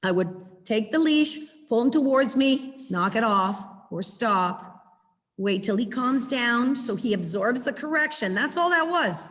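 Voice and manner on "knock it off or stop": low, firm command; displeased, controlled order; correcting tone. Shown as a demonstration. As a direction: correct the dog without yelling. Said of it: "that's your tone when you're correcting".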